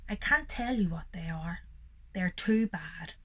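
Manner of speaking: secretive whisper. Acted. Reader to children, secretive whisper. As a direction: hush it like a secret.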